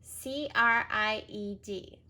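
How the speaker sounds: C R I E D spelled letter by letter; slow careful spelling. Shown as a demonstration. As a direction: spell each letter slowly.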